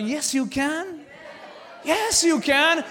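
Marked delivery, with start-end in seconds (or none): 1.8-2.8 shouted repeat. Acted. Pastor to congregation, a shouted yes you can. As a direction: shout it, higher and louder.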